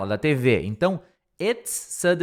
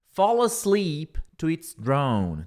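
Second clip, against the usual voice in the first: slow model phrase; much slower than usual. Shown as a demonstration. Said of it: "models English phrase slowly".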